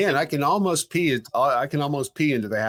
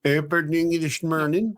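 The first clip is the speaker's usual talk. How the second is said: alien voice. Real, not acted. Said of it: "Like he's trying to speak European".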